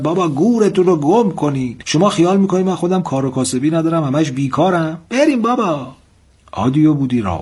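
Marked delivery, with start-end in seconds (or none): 0.0-5.9 put-on old dervish losing his temper, shouting higher; angry dervish yell. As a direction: yell at them to clear off, rising at the end. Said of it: "عصبانی شد و فریاد زد".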